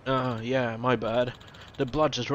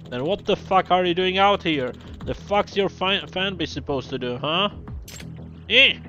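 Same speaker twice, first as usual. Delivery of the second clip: angry producer threats; 2 semitones higher than usual. Acted. Voiced producer threatening director.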